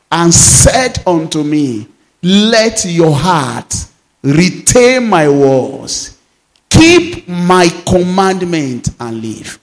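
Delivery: slow, measured reading of the verse; preacher reading Proverbs to the church, slow and solemn; scripture reading. Acted. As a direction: lay each phrase down slowly and solemnly. Reads Proverbs aloud to congregation.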